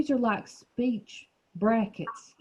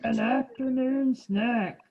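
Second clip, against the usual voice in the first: slow, drawn-out lion; lightly voiced lion, taking its time; 3 semitones higher, slower than usual. Shown as a demonstration. Teacher saying it with the child, slow lion voice. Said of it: "say it like you're the lion".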